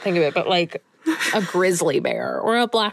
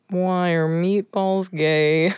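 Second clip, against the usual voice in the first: lazy panda; much slower than usual. Pretend. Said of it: "now be, like, a lazy panda".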